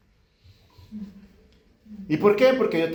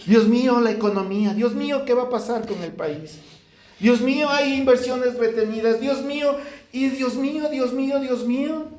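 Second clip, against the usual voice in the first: a mock anguished plea to God, building; desperate prayer; 2 semitones higher than usual. Preacher retelling his own crying prayer at three am, pleading. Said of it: "Y decía".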